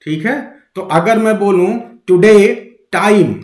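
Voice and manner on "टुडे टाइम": टुडे टाइम with deliberate weight on टाइम; stress on TIME. Shown as a demonstration. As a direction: demonstrate टुडे टाइम, pressing on the start of टाइम. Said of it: "अब की बार मैंने यहां pressure बनाया".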